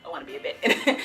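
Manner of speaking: breathy whispered echo of the line; whispered repeat. Real, not acted. Telling viewers her dream, whispered echo. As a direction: whisper it again for emphasis.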